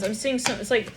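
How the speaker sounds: normal talking voice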